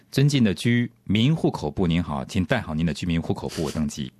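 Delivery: formal airport announcer voice; boarding announcement. Pretend. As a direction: read it like a gate call. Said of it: "对".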